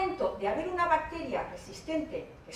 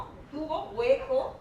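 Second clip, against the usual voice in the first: slow emphasis; slower than usual. Shown as a demonstration. Spells out the demonstration slowly.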